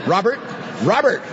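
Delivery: affectionate parent calling. Retold or imitated. Parent calling a son by name twice, lightly voiced with affection. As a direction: sing out the name twice, fondly. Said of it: "do you say your son".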